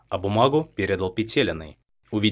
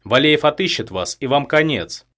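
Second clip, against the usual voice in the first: higher, louder threat; raised threat; 6 semitones higher, 5 dB louder than usual. A narrator's reading. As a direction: warn him, voice raised. Captive threatens her captor. (повышенная угроза)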